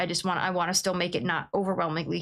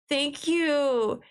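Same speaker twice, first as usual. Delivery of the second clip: each thank you higher and more gushing; building thanks; 9 semitones higher, much slower than usual. Real, not acted. Streamer thanking a viewer, rising into a squeal. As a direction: climb higher with every thanks.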